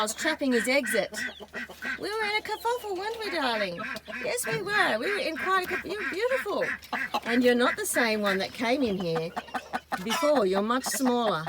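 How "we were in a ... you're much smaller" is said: high cooing pet voice. Real, not acted. Woman coos to the trapped goanna in high baby talk. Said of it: "I don't know why I'm talking like this".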